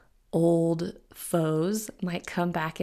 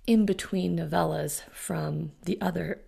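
hoarse, fading voice cracking into air; words half lost as the voice fails; voice giving out. Real, not acted. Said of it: "I'm losing my voice".

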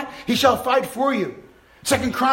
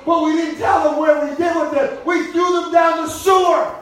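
gleeful loud confession; 4 semitones higher, 4 dB louder than usual. Real, not acted. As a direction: shout it out proudly. Shouting the confession.

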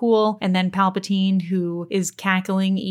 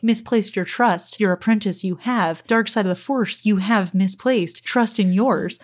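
Yoda-speak. Retold or imitated. Podcaster mimicking how Yoda phrases it, lightly voiced Yoda. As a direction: lightly mimic Yoda, words jumbled, unhurried. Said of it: "because he's like".

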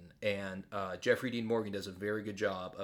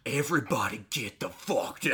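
Rick in character; 4 dB louder than usual. Retold or imitated. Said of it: "As soon as they hit action".

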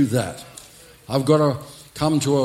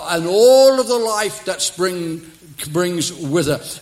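raised, ringing proclamation; emphatic preaching; 2 semitones higher, 3 dB louder than usual. Real, not acted. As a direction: declare it over the congregation. Preacher declares to congregation.

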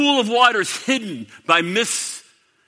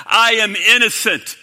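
louder, pleading protest; raised preacher voice as Pilate protesting; crying out; 3 semitones higher, 6 dB louder than usual. Retold or imitated. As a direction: call out the innocence to a crowd. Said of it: "he cried out to the crowd".

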